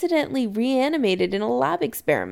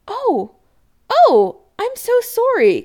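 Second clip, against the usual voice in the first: high, gushing, amused apology; laughing apology; 8 dB louder, slower than usual. A narrator's reading. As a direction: apologise brightly as if tickled. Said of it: "Kim laughs".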